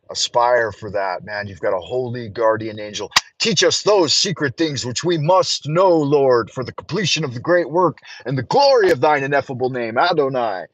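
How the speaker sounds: solemn invocation read; prayer. Acted. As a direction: pray it out with reverence. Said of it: "join me for a moment of prayer".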